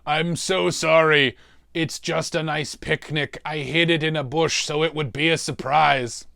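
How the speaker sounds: mildly panting apology; out of breath. Retold or imitated. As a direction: play it a little winded. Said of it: "I'm very out of breath".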